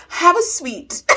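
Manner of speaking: high mock-kindly offer; mocking teacher imitation. Student mocking teacher's candy offer, high and sugary. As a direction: parody the placating teacher, high-pitched.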